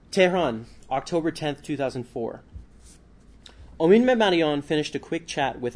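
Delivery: measured author reading aloud, phrase openings lifted; book reading. A narrator's reading. Author reading a book section to listeners, narrated read-aloud.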